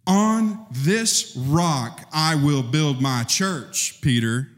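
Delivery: slow, weighty promise; slow and grand, like a blessing; solemn Jesus quote. Retold or imitated.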